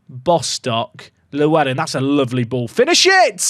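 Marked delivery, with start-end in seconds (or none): 2.7-3.5 loud, high yell at the player; excited shout. Real, not acted. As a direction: yell at the striker to finish it. Shouting at striker during chance.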